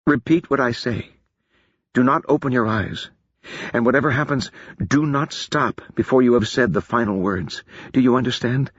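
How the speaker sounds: put-on solemn warning to a young woman; lightly voiced wise mage; Feor's voice. Feor voiced, instructing.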